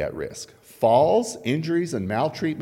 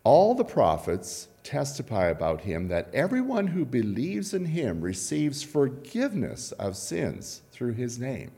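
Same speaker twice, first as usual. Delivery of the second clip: scripture reading. Acted. Reads scripture aloud.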